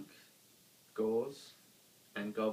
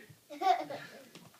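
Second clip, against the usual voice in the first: giant's laugh; 5 dB louder than usual. A narrator's reading. Monster laughs happily.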